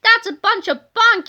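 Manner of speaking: high, loud dismissive shout; scornful yell. A narrator's reading. Mister Krupp yells at Kipper about the ghost story, scornful. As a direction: bark it with scorn. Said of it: "yelled Mister Krupp".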